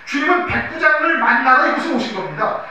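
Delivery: normal talking voice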